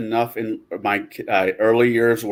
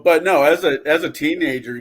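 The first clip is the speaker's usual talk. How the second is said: ordinary talk, nothing marked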